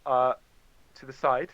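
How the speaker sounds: ordinary talk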